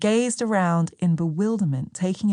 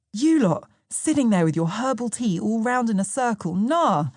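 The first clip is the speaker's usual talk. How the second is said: higher, lively retelling of a disbelieving friend; voicing Sam; 4 semitones higher than usual. Sam teasing his partner about her friends, lightly voiced and amused. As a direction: toss it off with amused disbelief, pitched up. Narrator voices Sam's recalled words.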